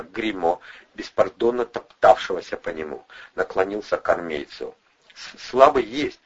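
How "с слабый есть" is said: higher, louder, slow and shaky; trembling voice. A narrator's reading. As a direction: report it with a shaking voice. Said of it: "дрожащим голосом доложил".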